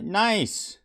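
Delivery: high, loud exclamation with a falling end; pleased cheer. Real, not acted. Streamer hears a viewer is finally free, pleased cheer.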